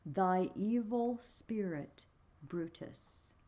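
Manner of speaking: slow, drawn-out ghost voice fading to a whisper; ghostly spirit. Acted. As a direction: let the ghost's name die away in a whisper. Ghost answers Brutus.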